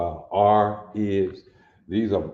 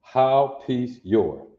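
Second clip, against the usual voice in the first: slow literal reading; 2 semitones higher, slower than usual. Shown as a demonstration. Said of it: "No R in anywhere".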